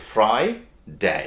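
"ফ্রাইডে" slowly, as fry... day. Shown as a demonstration. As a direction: split "ফ্রাইডে" after fry. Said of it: "ওইটার মতোই অনেকটা". ("ফ্রাইডে" ধীরে, ফ্রাই আর ডে আলাদা করে)

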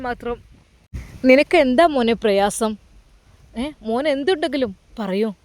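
put-on a kindly elder asking a grieving boy what's wrong; concerned old man. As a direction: caretaker finding the boy at his father's grave, lightly voiced. Caretaker pleads with crying boy.

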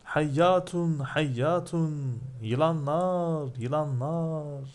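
high, drawn-out cries of alarm; mock crowd scream. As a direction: imitate a crowd crying out, stretching each word. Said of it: "diye bağırıştılar". (yılan görenlerin bağırışını taklit, tiz ve uzatarak)

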